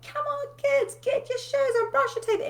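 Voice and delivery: high, loud, frantic hurry-up call; mock mum yelling. Mum rushing her kids to school, high frantic yell. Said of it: "I'd just go psycho in that five minutes".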